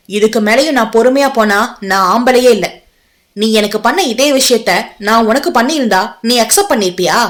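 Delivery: a sharp, fast, scornful comeback; scornful retort. Acted. Arjun mocks her plea for patience, fast and scornful. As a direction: throw her word back at her, fast.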